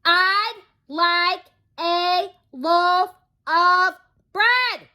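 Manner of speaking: very slow, high, loud roar. Acted. Mister Noisy roars at the baker's wife who won't hear, roaring. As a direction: roar every word out. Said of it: "roared Mister Noisy".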